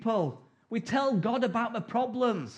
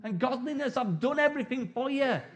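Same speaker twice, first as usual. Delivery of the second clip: voicing God; 4 semitones higher than usual. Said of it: "God's looking at us going".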